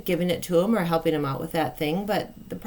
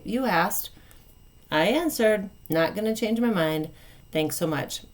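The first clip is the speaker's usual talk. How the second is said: matter-of-fact; 2 semitones higher than usual. Shown as a demonstration. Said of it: "You just say".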